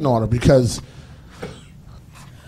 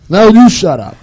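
mock shout back; 6 semitones higher, 9 dB louder than usual. Couple bickering, acted.

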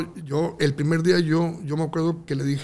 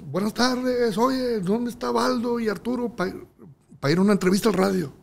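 imitating the promoter; 8 semitones higher than usual. Promoter asks for Baldo.

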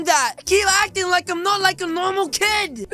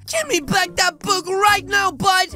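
tag; 3 semitones higher than usual. Acted. Confronting the bully.

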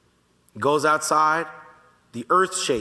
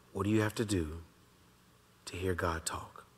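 whisper; 6 semitones lower, 10 dB quieter than usual. Shown as a demonstration. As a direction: keep whispering the question. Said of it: "God talks like this".

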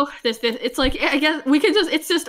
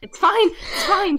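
defensive reassuring; 6 semitones higher, 4 dB louder, slower than usual. Real, not acted. Friend protests broken blocks.

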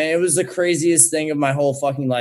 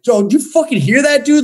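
retold alarm; 12 semitones higher, 5 dB louder than usual. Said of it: "And I was like".

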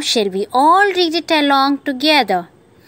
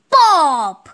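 sudden raised "pop" falling in pitch; drawn-out, higher balloon pop; 4 semitones higher than usual. Acted. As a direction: imitate a balloon bursting. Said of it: "The balloon burst".

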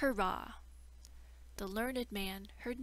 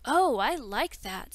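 delighted princess; 2 semitones higher, 10 dB louder than usual. Acted.

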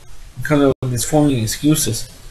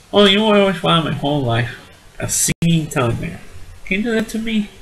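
put-on old aunt voice; 4 semitones higher than usual. Aunt pleads for singing telegram.

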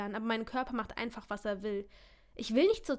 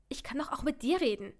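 huffing; 3 semitones higher than usual. Acted. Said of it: "schnaufe ich".

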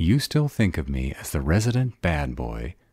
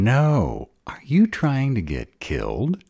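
sharp, high and louder protest; alarmed outburst; 7 semitones higher, 4 dB louder than usual. Acted. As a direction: cry out in fear for him. Alarmed at a dangerous plan.

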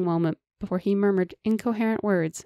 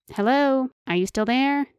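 higher, louder call to get her attention; yelling; 6 semitones higher, 3 dB louder than usual. Acted. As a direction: call out as if she's miles away. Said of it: "Carl yelled".

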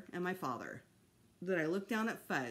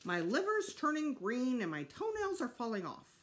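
odd, higher bird voice; droll bird voice; 5 semitones higher than usual. A narrator's reading. Fudge's bird moaning about its health, odd voice. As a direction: croak out a sorry complaint.

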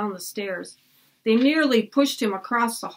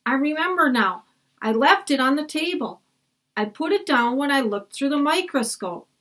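put-on higher eager boy's voice; excited boy Jack; 5 semitones higher than usual. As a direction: remember it with relief.

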